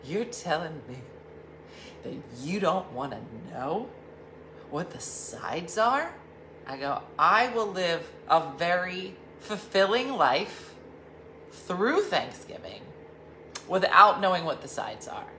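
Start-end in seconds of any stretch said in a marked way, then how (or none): 0.0-6.1 indignant. Retold or imitated. Diana pressing him about the Thanksgiving sides, mock indignant. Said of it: "real indignant". 7.2-15.3 grand mock declaration. Retorting grandly to Diana.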